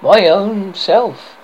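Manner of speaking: put-on a wee fairy child answering, drawn out and high; shrill sweet little voice. A narrator's reading. Fairy child naming herself to the boy, high and sweet. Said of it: "in a shrill but sweet little voice".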